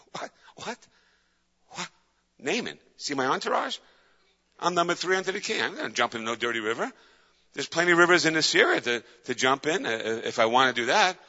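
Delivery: a touch of a proud, indignant general; indignant Naaman. Acted. Naaman scoffing at Elijah's order, mock indignant. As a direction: huff like an insulted big shot. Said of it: "And Naaman goes".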